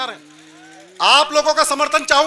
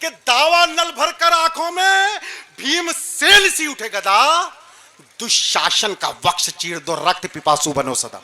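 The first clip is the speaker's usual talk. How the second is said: poetry recitation; slower than usual. Acted. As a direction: declaim a heroic call to arms. Recites verse on stage. (ओजस्वी वीर रस काव्य पाठ)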